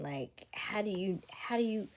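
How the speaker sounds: hushed whispered disbelief; whispered, lost for words. Real, not acted. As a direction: breathe it out in a whisper. Stunned aside to viewers.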